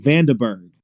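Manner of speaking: "Vandenberg" run together as Vanduhberg; corrected pronunciation. Shown as a demonstration. Presenter practising the settled name, corrected pronunciation. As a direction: say "Vandenberg" with a light uh in the middle. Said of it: "but I'm gonna say Vandenberg".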